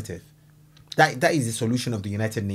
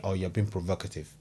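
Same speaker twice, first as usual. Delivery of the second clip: mocking; 6 semitones lower, 6 dB quieter than usual. Mocking UN accusation.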